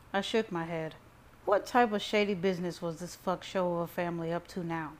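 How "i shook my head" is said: ordinary delivery, nothing marked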